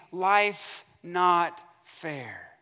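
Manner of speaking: very drawn-out mock lament; slow, exaggerated grumble; mock complaining. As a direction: stretch each word as a complaint. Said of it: "but he complains".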